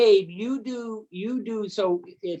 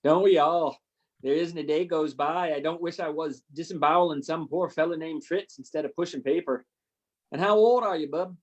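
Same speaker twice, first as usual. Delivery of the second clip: put-on gruff Canadian colonel, a light Canadian accent; jovial Canadian accent, lightly done; 2 semitones lower than usual. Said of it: "How was my Canadian accent?".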